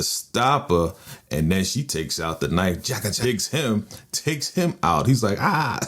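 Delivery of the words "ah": high-pitched little "ah" of a scream; mock scream. Recapping the stabbed man's cry, mock scream. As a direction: squeal in imitation, without real force. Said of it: "screaming like a little".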